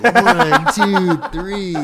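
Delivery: loud, high hollered count; re-enacted stage scream; retold shouted countdown. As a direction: count off to a rowdy room at a yell. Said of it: "I basically scream at all these people".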